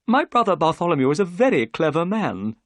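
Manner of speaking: Thaddeus Sholto. A narrator's reading. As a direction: voice the excitable host. Sholto's voice in the story.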